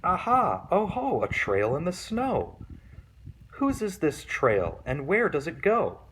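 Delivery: put-on high, excited child's voice at first; a little monster pleased at her discovery; Gruffalo's child. Child spotting a trail in the snow, high and excited.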